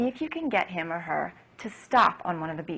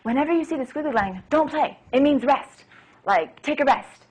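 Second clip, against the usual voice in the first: put-on to a child; 6 semitones higher than usual. Shown as a demonstration. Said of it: "if you say to the child".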